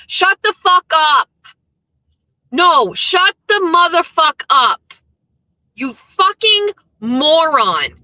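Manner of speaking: slow, emphatic telling-off; furious slow scolding; angry rant. Real, not acted. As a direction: spit it out at the troll, slowly. Ranting at troll account.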